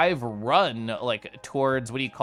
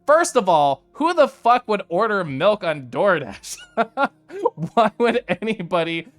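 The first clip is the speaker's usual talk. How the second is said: louder, higher indignant rant; 5 semitones higher, 5 dB louder than usual. Real, not acted. Streamer ranting to chat about milk delivery, loud. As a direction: rail against the idea.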